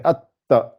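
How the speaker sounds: "atta" with a held closure on the t; doubled t. Shown as a demonstration. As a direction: pause on the t in "atta", then release. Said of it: "si c'était un ta".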